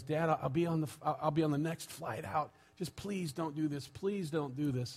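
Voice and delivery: soft acted pleading; understated, hushed plea to a father. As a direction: beg gently, as a retold daughter. Daughter begging dad in retold story.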